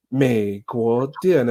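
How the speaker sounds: slow, overdone foreigner's Mandarin tones; exaggerated Chinese accent. Lost foreigner pleading with store staff, slow exaggerated Mandarin. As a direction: stretch each syllable like a struggling learner. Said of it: "我这个口音是夸张的".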